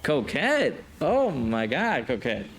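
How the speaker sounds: high, starstruck calls of a name; excited gushing. Real, not acted. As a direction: gush over her like a fan. Smitten by a game character.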